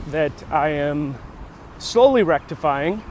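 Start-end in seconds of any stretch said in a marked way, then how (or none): 1.8-3.0 "slowly" given gentle weight; stress on slowly. Shown as a demonstration. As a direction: lean on "slowly" a little, drawn out. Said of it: "I emphasize the word slow".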